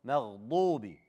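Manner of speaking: مغضوب with a thick, dark ض; heavy dad. Shown as a demonstration. Teacher repeats the correct letter, heavy ض in مغضوب. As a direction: press the ض heavily in مغضوب. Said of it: "It's a dad".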